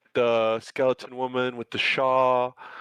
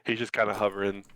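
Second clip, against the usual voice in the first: ordinary delivery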